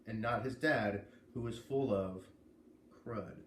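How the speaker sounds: steady, clear read-aloud of a book blurb; story narration. A narrator's reading. A reader sharing a novel's blurb, in story narration. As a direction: read the back cover to your listeners.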